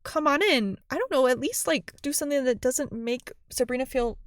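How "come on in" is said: friendly welcome. Retold or imitated. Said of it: "She didn't even say".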